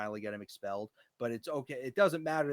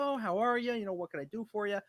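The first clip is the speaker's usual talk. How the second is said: bright, much higher, louder service voice; customer service voice; 10 semitones higher, 4 dB louder than usual. Retold or imitated. Greeting a tenant while putting on customer service cheer. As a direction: put on the sunny helpful-staff act. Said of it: "putting on my customer service and be like".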